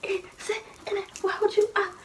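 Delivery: high-pitched, chopped mock scolding; word per hit. Mother beating child over school, chopped scolding. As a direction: punch out one word per smack. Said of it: "so sis was hitting me".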